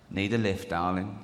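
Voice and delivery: low-pitched, insinuating offer; kerb-crawling driver. Acted. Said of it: "and in it, he goes".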